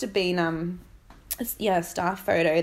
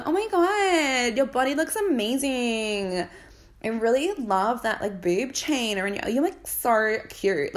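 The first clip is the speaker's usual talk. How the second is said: mock fake gushing; 4 semitones higher than usual. Mocking the girls gushing over Billy's body. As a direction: gush like a two-faced friend. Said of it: "rather than being fake ass bitches and going".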